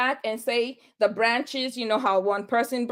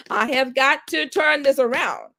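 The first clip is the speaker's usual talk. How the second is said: emphatic retold resolve, higher pitched; determined; 4 semitones higher, 3 dB louder than usual. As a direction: push each word with resolve. Determined self-talk, retold.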